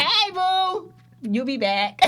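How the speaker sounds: high, sing-song hey boo; sweet greeting. Retold or imitated. Greeting the friend at the wake, sing-song sweet. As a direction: coo it at them like a dear friend.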